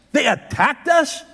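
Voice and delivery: "us" pushed out, high and slow; stress on us. Shown as a demonstration. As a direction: hit "us" as if it can't be true. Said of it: "you could put an emphasis on any".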